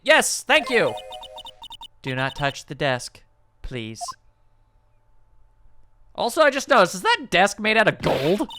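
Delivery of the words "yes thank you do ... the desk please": low, soft, deadpan secretary voice; creepy secretary. Acted. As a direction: speak low and eerily calm as the odd secretary. Secretary character voiced in game.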